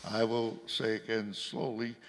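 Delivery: deliberate, carefully separated words; slow and clear. Real, not acted. Questioner repeating for someone who has trouble hearing, slow and clear. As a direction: repeat it slowly, word by word. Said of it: "try to be more clear".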